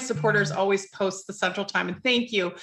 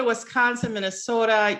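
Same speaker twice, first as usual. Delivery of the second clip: ordinary delivery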